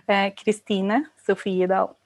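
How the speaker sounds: "Christine Sofiedal" said in native Norwegian; Norwegian pronunciation. Shown as a demonstration. Guest saying her own name in Norwegian, on request. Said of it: "say your name in your more authentic, beautiful Norwegian voice".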